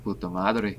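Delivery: Puta madre with flat American R; gringo-accented Puta madre; American accent Spanish. Shown as a demonstration. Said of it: "That was bad too".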